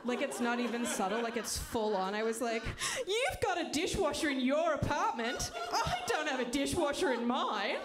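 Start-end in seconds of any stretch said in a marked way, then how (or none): 3.1-7.8 put-on Australian accent. Flirting with the neighbor in a full-on Australian accent. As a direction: ham up an Australian accent to impress her. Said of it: "started using an Australian accent".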